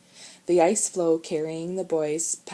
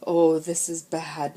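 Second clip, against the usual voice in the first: moaning; 6 dB louder, slower than usual. Acted. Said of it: "moaned Tony".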